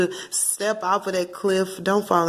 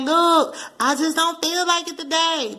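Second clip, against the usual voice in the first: weary brush-off; 10 semitones higher, slower than usual. Pretend. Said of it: "you're like".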